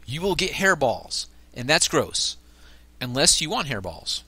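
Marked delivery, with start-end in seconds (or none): 0.0-1.2 slow, deliberate note reading; reading aloud. Real, not acted. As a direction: read out a warning label slowly.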